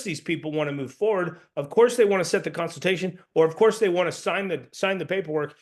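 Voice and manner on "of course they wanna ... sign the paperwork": assumptive. Shown as a demonstration. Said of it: "when I'm leveraging my tonality".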